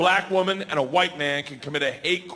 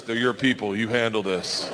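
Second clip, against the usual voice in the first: lower, dry hint of Sandy; deadpan Sandy; 6 semitones lower than usual. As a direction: hand the problem off, low and dry. Sandy deflects to him.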